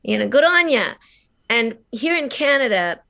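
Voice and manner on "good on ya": Australian accent. Shown as a demonstration. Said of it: "the accent in Australia".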